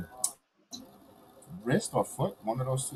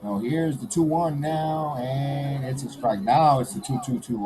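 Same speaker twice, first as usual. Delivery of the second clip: slow, drawn-out announcer call; play-by-play; slower than usual. Pretend.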